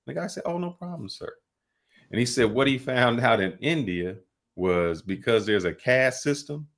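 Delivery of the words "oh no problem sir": high, soft, suddenly polite clerk voice; meek obliging clerk. Retold or imitated. Retold ticket clerk instantly caving to the demand, high and meek.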